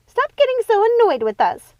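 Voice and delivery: high loud complaining cry; aggrieved shouted plea; cried out. A narrator's reading. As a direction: protest loudly. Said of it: "cried Ruby".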